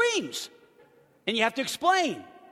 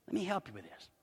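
put-on softer, patient explanation to a child; gentle explaining; 4 dB quieter than usual. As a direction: calmly teach the boy. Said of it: "And I said".

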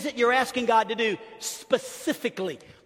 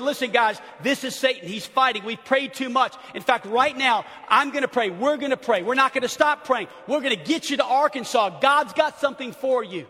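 loud, higher-pitched rallying speech; rally them with forceful urgency; urgent rallying; 4 semitones higher, 3 dB louder than usual. Retold or imitated. Rallying frightened team by speakerphone.

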